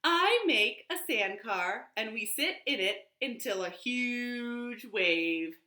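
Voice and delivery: lively picture-book reading; reading to children. Shown as a demonstration. Librarian reading the picture book aloud at storytime. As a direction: read it out warmly to the kids.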